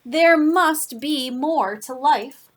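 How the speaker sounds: put-on dramatic fed-up declaration for children; grumbling complaint. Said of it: "it grumbled".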